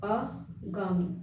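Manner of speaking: आगामी drawn out very slowly and soft; slow dictation. Shown as a demonstration. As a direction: stretch आगामी slowly, quietly. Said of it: "आगामी होता है".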